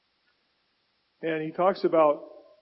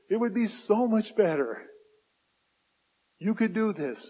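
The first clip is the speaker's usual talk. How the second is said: higher, louder anguished plea; Paul pleading with God; 4 semitones higher, 6 dB louder than usual. Acted. Preacher voicing Paul begging God, higher and louder. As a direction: beg God like a worn-out apostle. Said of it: "came to God and says".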